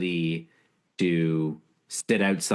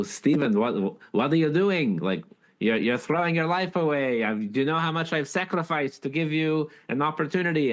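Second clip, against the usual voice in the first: put-on grandfather's scolding in a thick Polish accent, pitched much higher; imitating thick Polish accent; 10 semitones higher than usual. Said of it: "in his thick Polish accent".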